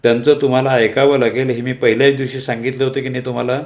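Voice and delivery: the boss snapping at the clerk in his cabin; irritated boss. Acted. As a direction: scold her as an irritated boss. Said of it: "पळसुल्यांनी चिडून विचारलं".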